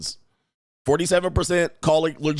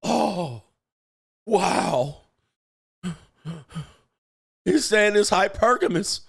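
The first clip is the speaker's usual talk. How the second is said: mock shock; 4 semitones higher, much slower than usual. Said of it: "the world would be, like, shocked".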